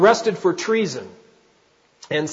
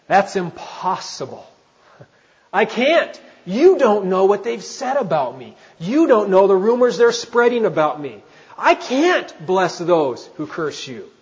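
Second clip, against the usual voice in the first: acted protest; 3 semitones higher than usual. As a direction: protest as an aggrieved churchgoer, pitch raised. Pastor voices an objecting listener.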